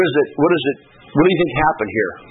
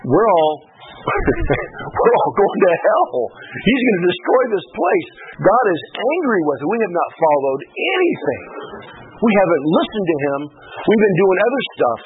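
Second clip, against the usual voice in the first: pitched up high in alarm, we're all going to hell; rising panic at God's anger; alarmed cry; 5 semitones higher than usual. Pretend. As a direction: cry out in dread that God is angry. Preacher in alarm at judgment.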